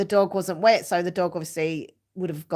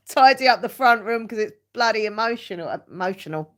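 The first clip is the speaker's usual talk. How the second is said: laughing; 3 dB louder than usual. Real, not acted. Laughing while telling off herself.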